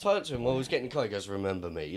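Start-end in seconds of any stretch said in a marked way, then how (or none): 1.3-2.0 low quiet Spanish accent imitation; menacing Spanish accent, low and soft. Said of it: "Like, in Spanish accent".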